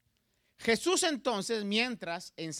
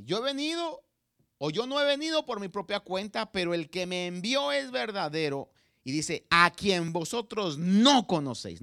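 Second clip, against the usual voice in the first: ironía y sarcasmo; 5 dB louder than usual. Acted. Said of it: "con un tanto de ironía y sarcasmo".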